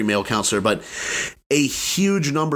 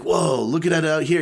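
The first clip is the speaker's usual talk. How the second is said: mock amazed guy; 5 semitones higher than usual. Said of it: "He didn't say it that way".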